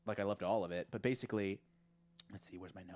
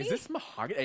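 Shining quote; 7 semitones higher, 4 dB louder than usual. Retold or imitated. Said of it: "the Shining reference".

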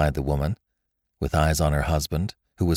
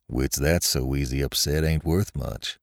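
low, dismissive husband's voice; scornful husband; 4 semitones lower, 3 dB quieter than usual. A narrator's reading. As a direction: dismiss her fears in a lowered voice.

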